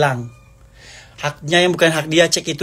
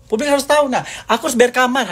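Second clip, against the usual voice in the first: much higher, pressing appeal; urgent appeal; 9 semitones higher than usual. Real, not acted. Appealing to the public about her rent, high and pressing. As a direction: insist the public must know.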